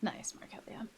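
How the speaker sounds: soft whispered compliment. Real, not acted. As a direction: whisper it under your breath. Whispered praise of a character.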